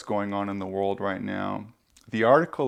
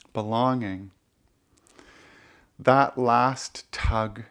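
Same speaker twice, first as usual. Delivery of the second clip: poetry reading. Acted. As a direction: let each phrase land, with pauses between. Reads own poem aloud.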